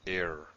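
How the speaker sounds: "air" begun with a glottal stop; initial breath stop. Shown as a demonstration. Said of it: "There's this initial stoppage of breath".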